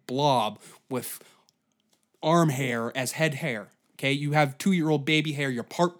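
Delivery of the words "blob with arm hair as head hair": slow hushed insult; whispering. Real, not acted. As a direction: whisper it slowly and mean.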